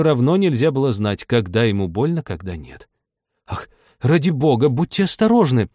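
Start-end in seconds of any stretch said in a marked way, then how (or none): 3.5-5.7 выше и громче, в испуге; вскрикни от страха за ребёнка; испуганный вскрик. A narrator's reading. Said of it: "вскрикнула Аня". (Аня испуганно вскрикивает, видя летящую посуду)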